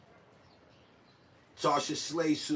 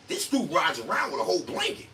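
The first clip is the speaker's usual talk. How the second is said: lightly put-on buddy voice; raised, mildly mock exclamation; Zip; 4 semitones higher, 4 dB louder than usual. Imitating his friend on the blanket, light impression. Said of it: "in my man Zip voice".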